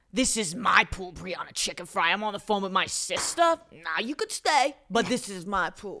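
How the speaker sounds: slowed, emphatic pool-owner impression; Tommy Kelly Junior. Retelling how he pointed and claimed his pool, slow emphatic impression. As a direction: draw out the territorial claim. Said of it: "how would you say Tommy Kelly Junior came out".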